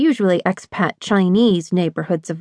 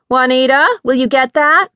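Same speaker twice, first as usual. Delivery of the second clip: raised, higher call to the maid in another room; 5 semitones higher, 4 dB louder than usual. A narrator's reading. Sister calls the maid from inside the house, loud and high.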